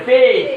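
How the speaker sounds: teacher loudly modelling ফেস for the class; model pronunciation. Shown as a demonstration. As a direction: stretch the vowel of ফেস like face. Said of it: "রস্বই হবে এখানে".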